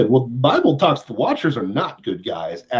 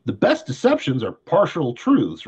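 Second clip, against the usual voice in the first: slow and deliberate, each word spelled out; over enunciating. Shown as a demonstration. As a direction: repeat it slowly for emphasis. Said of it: "Let me repeat that slowly".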